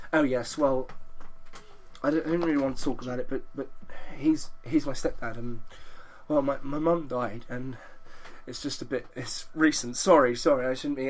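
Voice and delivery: quiet, faltering mock-grief in the English persona; hesitant put-on English sorrow. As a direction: fake a sad story to dodge the fine. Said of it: "I'm called Lloyd Irving".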